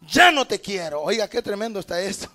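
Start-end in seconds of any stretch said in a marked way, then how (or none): 0.0-1.0 voicing an angry God, fed up and stern; the Lord losing patience, cursing the tree; preacher voicing God angrily cursing the fruitless tree. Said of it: "el Señor se enoja".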